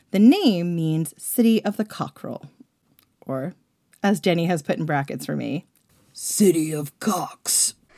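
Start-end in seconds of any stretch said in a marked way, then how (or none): 6.1-7.7 put-on rough, rasping, deep low voice. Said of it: "I'm gonna say things in a deep, raspy voice".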